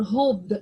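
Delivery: "hoped" ending in a voiced d, "hope-d"; teacher says "hoped" the wrong way with a d sound; wrong pronunciation. Shown as a demonstration. Teacher showing the class the wrong "hope-d" ending.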